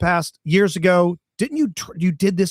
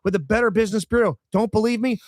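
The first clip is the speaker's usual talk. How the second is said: host-read radio ad pitch. Acted. Host pitches a roofing sponsor to listeners, ad read. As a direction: sell it in an emphatic, measured announcer delivery.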